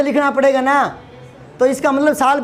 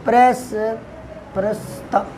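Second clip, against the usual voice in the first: mock struggling student; 2 semitones lower, 5 dB quieter, much slower than usual. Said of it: "कई बच्चों को प्रस्तावना लिखा था".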